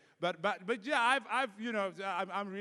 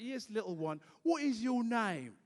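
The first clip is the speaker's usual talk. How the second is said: slow, higher kindly teacher question; sweet teacher; 5 semitones higher than usual. Retold or imitated. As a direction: coax a small child gently. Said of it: "she's like".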